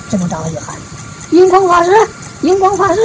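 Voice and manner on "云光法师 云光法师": calling out a name. Acted. Master summoning the ox in the field, high calling voice. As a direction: sing out the name to summon him.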